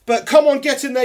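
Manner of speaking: loud, high victory cheer; excited cheer. Real, not acted. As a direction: punch it out like a fan celebrating. Celebrating the win again.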